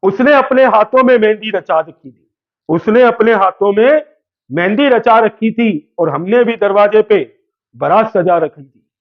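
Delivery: playful poetry recital to the class; reciting shayari. Pretend. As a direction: recite it like a mushaira poet, for fun. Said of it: "शायरी सुना दे क्या?".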